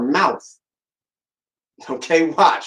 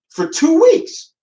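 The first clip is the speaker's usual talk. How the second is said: imitating Trump; 13 semitones higher, 4 dB louder, much slower than usual. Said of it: "He goes".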